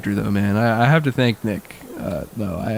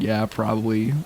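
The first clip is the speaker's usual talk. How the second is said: sheepish agreement; 4 semitones lower, 6 dB quieter than usual. Retold or imitated. Kids feeling bad.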